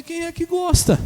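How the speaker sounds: loud, high exclaimed question; exasperated retort. Retold or imitated. Preacher retelling his answer to fearful patient, loud retort.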